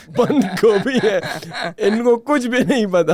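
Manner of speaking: can't hold back the giggle while saying it; laughing while talking. Real, not acted. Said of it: "मुझे ये बताते हुए हंसी भी आ रही है". (हँसते हुए बोलना)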